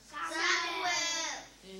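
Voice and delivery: very soft, distant call. A narrator's reading. God calling the waiting boy, very softly. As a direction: breathe the name like a faraway voice. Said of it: "God roept hem weer".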